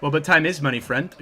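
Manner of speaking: sly little goblin voice. Acted. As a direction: croak it like a scheming goblin. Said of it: "Goblin voice?".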